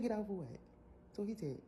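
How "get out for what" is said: higher, louder, disbelieving; indignant question. Retold or imitated. Rider to driver, higher indignant disbelief. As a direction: throw it back at him, indignant. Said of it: "I said".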